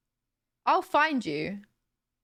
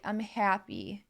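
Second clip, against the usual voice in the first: Canadian accent; 4 dB quieter, slower than usual. Shown as a demonstration. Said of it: "where they say, like".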